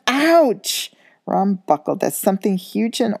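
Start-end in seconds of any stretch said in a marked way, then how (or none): 0.1-0.9 loud high yelp as the cat lands; startled yelp. A narrator's reading. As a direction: cry out in sudden pain.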